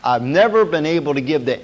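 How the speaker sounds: "never" picked out as the key word; stress on never. Shown as a demonstration. Preacher repeating Rockefeller's statement for emphasis, stress on "never". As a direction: lean on "never", then carry on evenly. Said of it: "I emphasize the word never".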